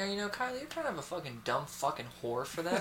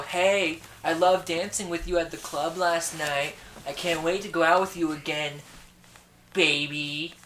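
flirty guy voicemail; 3 semitones higher, 6 dB louder, slower than usual. Retold or imitated. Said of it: "Voices were spot on".

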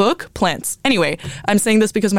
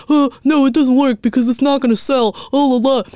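mocking record label; 6 semitones higher than usual. Mocking record labels who refuse a song, snooty voice. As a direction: sneer it like a dismissive label exec. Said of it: "labels are like".

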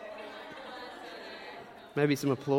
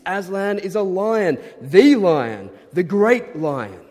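loud, high-pitched storybook proclamation; an excited beaver announcing his king; emphatic beaver; 5 semitones higher, 7 dB louder than usual. Acted. Reads Mr Beaver's emphatic speech.

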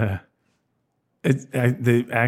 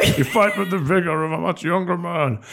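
Bane voice; 5 semitones higher than usual. Pretend. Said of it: "Can you do the Bane voice?".

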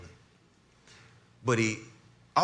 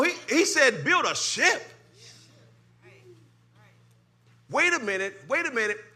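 much higher, louder fervent preaching; preaching at full force; 13 semitones higher, 6 dB louder than usual. Acted. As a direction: whip the congregation up.

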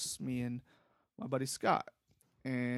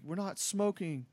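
retold yelling back; 5 semitones higher than usual. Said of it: "is yelling back".

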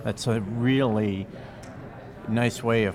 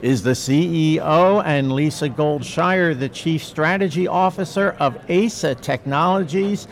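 booming hype announcer intro; fighting game announcer; 3 semitones higher, 7 dB louder than usual. Shown as a demonstration. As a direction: announce the guests like a ring announcer. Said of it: "now I get to put announcer voice on".

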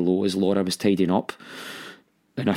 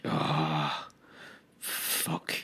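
hushed, low sigh of a curse; sinking dread; 6 semitones lower, 11 dB quieter than usual. Retold or imitated. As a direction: let the swear escape under the breath. Retold dread on facing mum.

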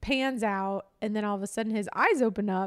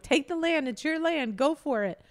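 higher-pitched, mildly imitated urging; urging coach; 6 semitones higher than usual. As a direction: egg him on as if coaching from the side. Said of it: "she's coaching him along".

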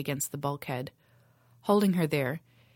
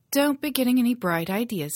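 stern threat; 7 semitones higher, 5 dB louder than usual. Acted. Pirate queen threatens captive.

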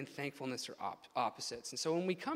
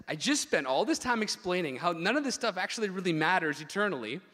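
loud, raised, insistent run of words; exasperated explaining; 4 semitones higher, 7 dB louder than usual. Retold or imitated. Preacher voicing the tone behind Jesus' verse, mildly exasperated. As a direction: stress the futility as if the point was already made. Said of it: "there's a tone that needs to be put on this verse".

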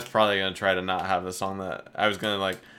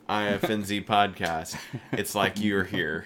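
mock tagline read.

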